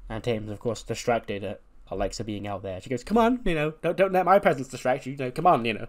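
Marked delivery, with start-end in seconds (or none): 3.0-5.9 higher-pitched playful heckling; mock-innocent needling, pitched up; ringside taunting. Alexa heckles Tatum during the match, taunting.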